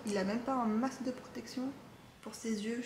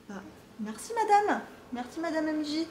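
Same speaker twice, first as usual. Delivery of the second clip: 1 high thanks; 5 semitones higher than usual. Real, not acted. Thanking the seller, high pitch.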